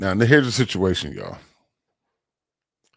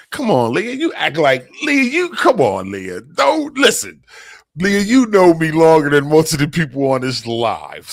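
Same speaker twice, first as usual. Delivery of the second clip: urgent plea to Leah; 3 semitones higher, 3 dB louder than usual. Real, not acted. Pleading directly with Leah on live.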